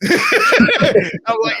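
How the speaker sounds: high squealing laugh through words; cracking up at the end of the story. Real, not acted. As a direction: break up laughing. Laughing at his own punchline.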